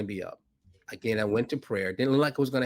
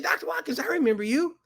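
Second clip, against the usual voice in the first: quoting Rajiv. Retold or imitated. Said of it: "He said".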